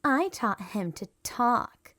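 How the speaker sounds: bragging. A narrator's reading. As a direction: show off proudly. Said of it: "Gertie bragged".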